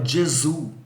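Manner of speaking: Gesù as in Italian, djeh-ZOO; Italian pronunciation of Gesù. Shown as a demonstration. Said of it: "em italiano a gente fala".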